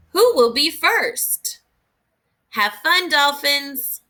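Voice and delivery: lively read-aloud cheer; excited storybook read. Acted. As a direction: cheer the dolphins on for the kids. Reading a book aloud to children.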